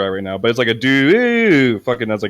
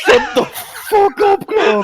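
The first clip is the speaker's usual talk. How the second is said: much higher, shouting; furious yell; 4 dB louder than usual. Acted. Captain yelling down the grate at Grog, angry shout. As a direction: snap at him at full volume.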